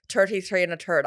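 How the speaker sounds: imitating an Irish listener's catchphrase; attempted Irish accent. Host copying a listener's Irish catchphrase, failed Irish accent. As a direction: have a go at an Irish accent, not quite landing it. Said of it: "I can't do it".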